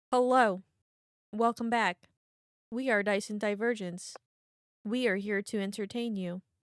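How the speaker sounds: low, flat toneless drone with zero inflection. Welcoming viewers back after a break, in a monotone voice. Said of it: "monotone voice ever".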